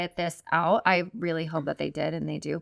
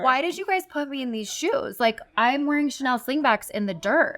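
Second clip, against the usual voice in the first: higher, exasperated complaint; 5 semitones higher than usual. Retold or imitated. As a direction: complain in disbelief. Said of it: "I literally was like".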